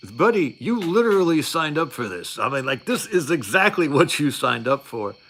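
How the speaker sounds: exasperated retort. Retold or imitated. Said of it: "And I was like".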